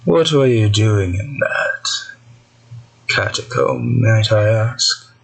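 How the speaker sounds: slow, lightly stern dream voice; cold, precise questioning. Acted. Mysterious voice asking about the catacomb, coolly stern. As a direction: question them with measured, cool politeness. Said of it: "Very cold, precise, almost stern".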